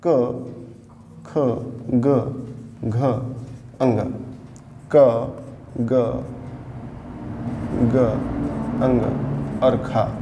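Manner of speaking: हर अक्षर अलग-अलग, धीमे और नीचे सुर में; क, ख, ग को रुक-रुककर गिनाइए; धीरे-धीरे अक्षर पढ़ना. Shown as a demonstration. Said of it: "ये हमने लिखा". (बच्चों को दिखाने के लिए अक्षर एक-एक करके)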